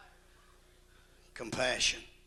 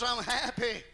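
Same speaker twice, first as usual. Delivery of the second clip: mock sullen wife; 10 semitones higher, 4 dB louder than usual. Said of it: "she says".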